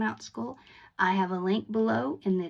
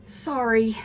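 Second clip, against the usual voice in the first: sincere sorry; 5 dB louder than usual. Shown as a demonstration. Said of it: "I would wanna say it more like this".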